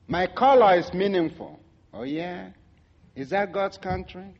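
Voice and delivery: retelling an incredulous, affronted comeback; indignant disbelief. Retold or imitated. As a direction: challenge him, building to a loud jab. Acted indignant retort to waiter.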